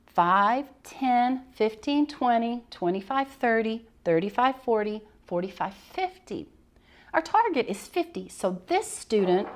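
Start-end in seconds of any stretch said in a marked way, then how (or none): 0.1-6.5 counting aloud. Shown as a demonstration. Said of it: "the way we would play it".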